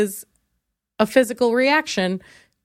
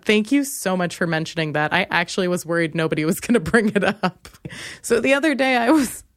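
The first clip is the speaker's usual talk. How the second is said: usual speaking voice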